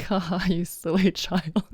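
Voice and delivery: lightly chuckling, indulgent; God amused. Acted. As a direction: gently laugh at a silly child. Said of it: "God just looking at us like".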